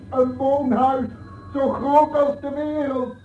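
high, soothing uncle's voice, eerily sweet; coaxing uncle. Acted. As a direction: lure the child gently home. Oom Kalebas coaxes the girl.

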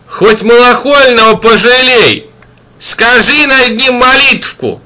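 high pleading woman's voice; pleading auntie. A narrator's reading. Kind auntie begging the wanderer to pray. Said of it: "попросила сердобольная тётка".

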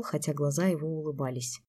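ordinary delivery, nothing marked

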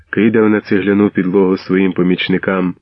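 ordinary delivery, nothing marked

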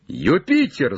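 high call of a name; shout. Acted. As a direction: call up to someone far above. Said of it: "закричал он".

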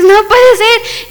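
high, drawn-out dismay; acted disbelief. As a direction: stretch it out in mock horror. Sees the broken arm.

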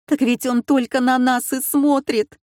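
a scared wife pointing out the danger; wife panicking at the staring crocodile; frightened. A narrator's reading.

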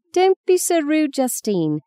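high-pitched, indignant reprimand; grandmother's sharp, high scolding; scolding demand. A narrator's reading. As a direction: demand better manners from a rude child. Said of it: "demanded Fee".

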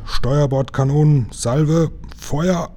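high rising battle command; firing command. Acted. Captain ordering the cannons to fire, shouting. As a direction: call fire across the deck.

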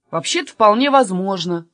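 ordinary delivery, nothing marked

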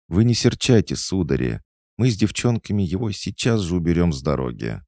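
put-on high girlish chatter, hurrying; squirrel girl, apologetic. Squirrel soothing gentlemen about the drunk, eager and apologetic. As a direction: squeak a quick placating promise.

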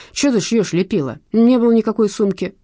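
mild indignant squawk; squealing protest. A narrator's reading. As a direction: protest noisily at being framed. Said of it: "заверещал Шнурок".

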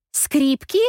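the penny drops, say it in alarm; dawning shock. A narrator's reading. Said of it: "Мгновение я не могу пошевелиться".

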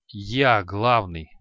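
slow wheezing from the floor; collapsed on floor. Acted. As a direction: rasp it out, badly wounded. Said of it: "прохрипел с пола один из раненых". (медленный хрип раненого с пола)

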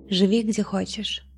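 usual speaking voice

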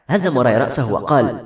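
plain reading voice

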